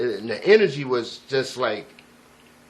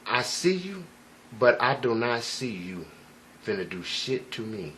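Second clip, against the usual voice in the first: calm stare; 4 semitones lower, 4 dB quieter than usual. Retold or imitated. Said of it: "very, uh, relaxed".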